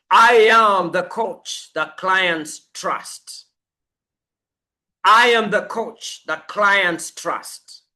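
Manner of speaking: steady declaration; anchored affirmation. Shown as a demonstration. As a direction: plant each word like you own it. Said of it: "I want you to anchor it".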